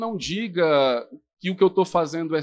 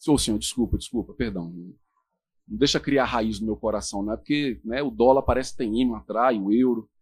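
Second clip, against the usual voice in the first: pleading believer; 10 semitones lower, 3 dB quieter than usual. Acted. Believer begs God's pardon.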